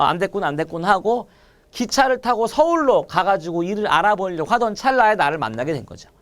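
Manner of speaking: normal talking voice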